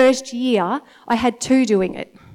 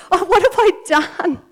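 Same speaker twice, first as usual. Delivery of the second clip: laughing dismay; 6 semitones higher than usual. Retold or imitated. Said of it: "I'm like".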